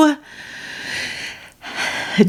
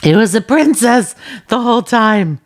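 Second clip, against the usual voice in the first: stunned realization; 2 semitones higher, slower than usual. Retold or imitated. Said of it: "And I was like".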